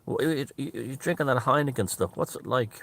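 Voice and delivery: hesitant, lightly imitated Southern accent; attempted Southern voice. Junior asking about Heineken, half-hearted Southern accent. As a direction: try a Southern man's voice without much conviction. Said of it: "I can't do the black man southern voice".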